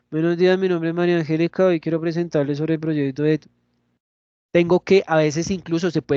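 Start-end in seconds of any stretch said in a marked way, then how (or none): 0.1-3.4 fast, half-closed-mouth mumble. Shown as a demonstration. Teacher imitating a student presenting with a closed mouth. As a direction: talk through a barely open mouth. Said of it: "con la boca medio cerrada".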